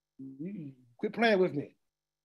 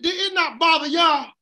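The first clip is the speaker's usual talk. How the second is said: raised, higher call to the room; preaching shout; 5 semitones higher than usual. Real, not acted. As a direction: press the question on them. Preacher calling out to the congregation.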